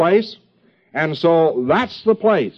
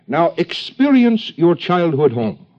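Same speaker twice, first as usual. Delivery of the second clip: mock German accent; 3 semitones higher, slower than usual. Lecturer parodies an analyst guiding a patient, slow German accent. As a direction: order it like a Viennese doctor in a German accent, slowly. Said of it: "the proper accent of psychoanalysis".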